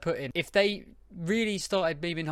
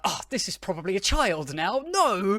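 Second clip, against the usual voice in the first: rising to a loud, higher "No!"; playful outburst, getting louder to the end; a retold dismayed yell; mock dismay; 4 semitones higher, 5 dB louder than usual. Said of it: "and I was like".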